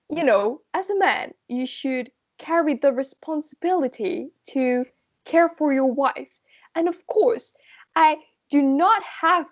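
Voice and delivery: put-on English accent. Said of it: "attempt my best at an English accent".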